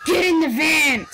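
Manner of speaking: loud, high creepy kidnapper bark; joking creepy van line; creepy stranger voice. Pretend. Creepy joke line, then kidding.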